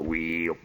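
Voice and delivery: low soft whee of a drill; drill whine. Retold or imitated. Old coot drilling blind, soft low drill whine. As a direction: make the drill spin sound. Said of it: "He just go".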